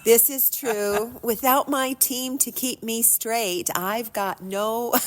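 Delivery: slow words through a laugh. Real, not acted. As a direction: chuckle while admitting it. Laughing at team joke.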